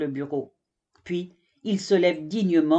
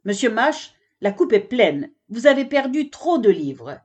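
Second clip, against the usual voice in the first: irritated librarian; 3 semitones higher, 4 dB louder than usual. Acted. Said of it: "madame Floris est si énervée".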